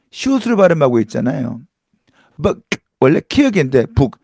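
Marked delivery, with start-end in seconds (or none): 3.9-4.2 북 with an unreleased Korean final k; Korean-style pronunciation. Shown as a demonstration. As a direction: say 북 as a Korean syllable ending in 기역. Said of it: "기역으로 표기하고 있지 않습니까". (한국식 받침 발음으로 '북')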